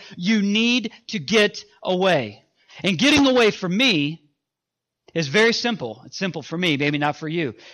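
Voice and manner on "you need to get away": stern, very firm, very slow delivery. Retelling his wife squaring him up when he is reluctant: imitating an even firmer tone. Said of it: "she will speak even more firmly".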